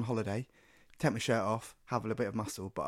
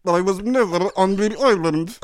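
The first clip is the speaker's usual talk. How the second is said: slow, higher, robotic mock voice; a hammy synthesized speech voice; Stephen Hawking impression; 8 semitones higher, 10 dB louder than usual. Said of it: "It's close".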